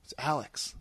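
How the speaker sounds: soft, low mumble; quiet. Retold or imitated. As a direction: say it softly, dropping away. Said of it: "He's all".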